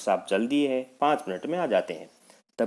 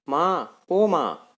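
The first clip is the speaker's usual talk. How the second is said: groaning in pain; 6 semitones higher, much slower than usual. Acted. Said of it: "Mohan जोर से कराह कर".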